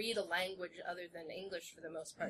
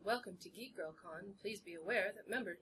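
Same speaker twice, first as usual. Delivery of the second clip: a plain, even announcement read, a little softer; straight reading; 5 dB quieter than usual. Shown as a demonstration. Welcoming Geek Girl Con attendees, straight announcer read. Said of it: "I can't even do it now".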